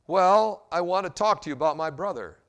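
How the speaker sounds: annoyed. Acted. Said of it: "in the same annoyed tone".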